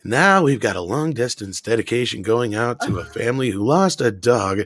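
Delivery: lightly voiced smooth radio host; Casey Kasem. Radio host dedicating to a family, smooth imitation. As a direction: imitate a composed on-air dedication. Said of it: "Casey Kasem losing it over".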